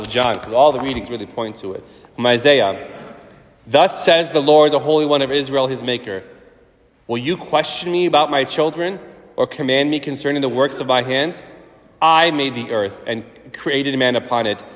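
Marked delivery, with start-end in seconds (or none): 3.7-14.6 scripture reading. Acted. Reads from Isaiah.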